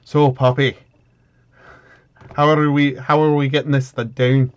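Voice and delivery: put-on an Irish accent that keeps slipping into Scottish; attempted Irish accent. Farron asking Poppy how to get the rotten gangway down, in a shaky Irish accent. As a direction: try for Irish, land somewhere near Scottish. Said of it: "I have to get into the Irish accent".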